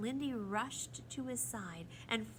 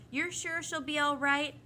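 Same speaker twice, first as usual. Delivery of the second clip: mildly anxious, higher-pitched question; 8 semitones higher, 9 dB louder than usual. A narrator's reading. A boy asks about the hurt bird, anxious. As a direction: ask with a touch of worry. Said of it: "the boy asked anxiously".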